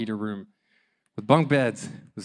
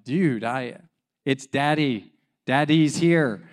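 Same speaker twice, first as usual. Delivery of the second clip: retold insisting, slowing and louder at the end; exasperated dad; 5 dB louder, slower than usual. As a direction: spell it out for a struggling toddler. Frustrated dad insisting to fighting toddler.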